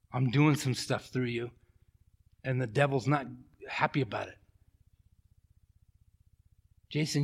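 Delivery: a soft, gentle reassurance from God; gentle Spirit voice. Retold or imitated. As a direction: speak it softly, like a tender whisper of comfort. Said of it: "gentle whisper of the Spirit".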